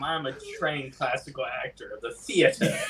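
mock classical stage actor; Sir Ian McKellen. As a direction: play the grand trained thespian, hammed-up. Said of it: "like Sir Ian McKellen".

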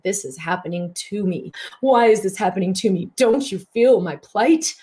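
playful self-pitying whine, pitch rising toward the end; whiny victim voice. Retold or imitated. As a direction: play the victim asking for sympathy. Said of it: "Complaining is always victim consciousness".

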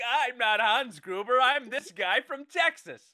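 a hint of a put-on English accent, a little slow; lightly mock a German villain's English accent. Villain claims he's from Texas, in a lightly put-on English accent. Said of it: "he's speaking in an English accent".

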